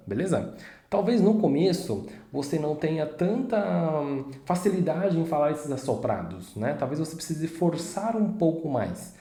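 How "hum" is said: ordinary talk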